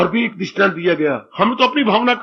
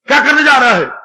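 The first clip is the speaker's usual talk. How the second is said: sharp challenge; 4 semitones higher, 4 dB louder, faster than usual. Acted. Father challenges servant.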